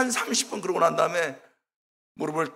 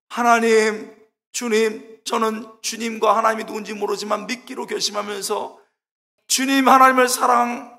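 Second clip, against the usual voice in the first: earnest prayer; 4 semitones higher, 6 dB louder than usual. Retold or imitated. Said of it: "진심을 다해서 얘기하는데요".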